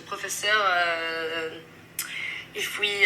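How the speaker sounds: slow French-accented hesitation; French accent, searching for the next word. Shown as a demonstration. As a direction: stretch the filler like a French speaker. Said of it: "it's very prominent in French language".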